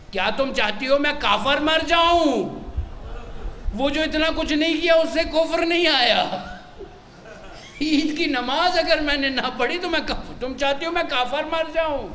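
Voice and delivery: high, loud mock indignation; hammed-up high-pitched protest; retold angry outburst. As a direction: act out an outraged husband protesting to his wife. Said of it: "غصے سے، آگ بگولا".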